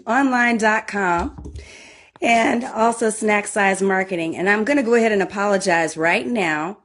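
hoarse from yelling at soccer; worn, hoarse voice after cheering; soccer mom voice. Real, not acted. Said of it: "I have soccer mom voice".

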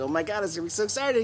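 high, rushed gushing as the partner; mock excitement. Imagined partner driving to a surprise, mock excited.

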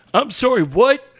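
put-on a touch of an affronted old man; offended old caller.

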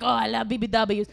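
rough mock Italian accent; loosely done Italian accent. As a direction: imitate an eager Italian guy. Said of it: "I was with this Italian guy".

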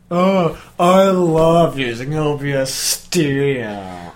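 slow, syrupy fake endorsement; mock advert praise; sarcastic ad read. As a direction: gush like a paid shill.

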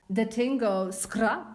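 slow, deliberate reading of a rap lyric; mock-solemn recital. Host reads rap lyric as proverb of the week, mock-solemn. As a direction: recite it like profound wisdom, drawn out.

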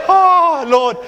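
high shouted "Oh, Lord" like a spent runner; exhausted cry. Retold or imitated. Preacher voicing a spent marathon runner, loud cry. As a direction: cry out to God at the end of your strength.

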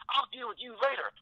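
high, clipped stern dad voice imitated; stern father. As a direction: snap it at her like an irate dad.

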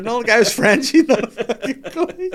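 high, loud, laughing delivery; laughing while talking. Real, not acted. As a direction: tell it while cracking up. Cracking up at own story.

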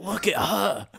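mock Aussie wildlife-host accent; lightly put-on Australian twang. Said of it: "It was just O G Australian".

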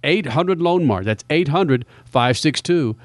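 upbeat radio ad read for the race party; punchy Southern California radio promo read. Acted. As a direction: sell the sponsor like a radio host. Live sponsor ad read.

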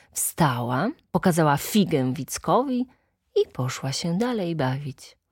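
plain reading voice

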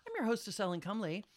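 playful mock pageant host; hammed-up beauty pageant hostess.

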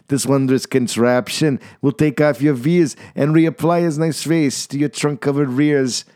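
sly salesman. Acted. Salesman luring confused coiners back, sly. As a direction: wink through every word. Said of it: "with a very sly wink".

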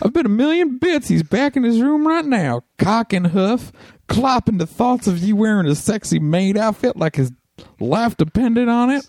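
put-on high Japanese accent voice.

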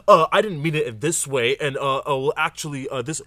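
lightly mimicked excuse-maker; mocking gaslighters. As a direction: play a weaselly backpedaller, lightly. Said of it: "try to play these mind games like".

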